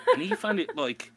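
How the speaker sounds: ordinary talk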